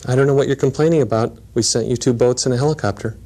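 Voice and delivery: mildly calm, matter-of-fact reply; calm retort. Retold or imitated. Saint Peter answering the miffed man at the pearly gates, calm retort. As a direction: answer the complaint evenly, without raising pitch or volume. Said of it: "looked at him very calmly and said".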